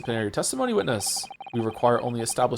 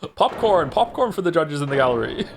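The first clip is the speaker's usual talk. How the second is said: louder, delighted gallery judge calling for popcorn; gleeful; 5 semitones higher, 5 dB louder than usual. Acted. The entertained judge shouts for popcorn from the gallery. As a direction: relish the chaos and call out.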